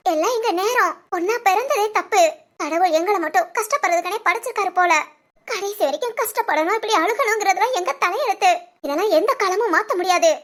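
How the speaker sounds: tearful, bitter lament; crying. Acted. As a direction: lament your fate through tears. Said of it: "அழுகுறியா?". (அழுதுகிட்டே புலம்பல்)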